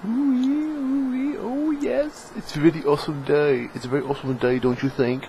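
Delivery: high-pitched, badly faked English accent; horrible English accent. Vlogger playfully greeting viewers about an awesome day, horrible English accent. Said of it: "Horrible English accent".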